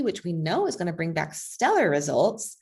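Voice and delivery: dry sarcasm with exaggerated pitch swoops; sarcastic. Real, not acted. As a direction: lean sarcastically on the mock praise. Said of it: "I'm being very sarcastic".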